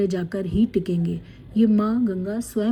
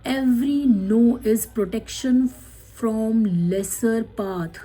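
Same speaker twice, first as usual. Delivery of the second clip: slow card reading; much slower than usual. Acted.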